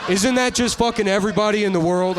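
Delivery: laughing incredulous punchline; incredulous outburst. Real, not acted. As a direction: throw it out to the crowd in disbelief. Comic outburst at own joke.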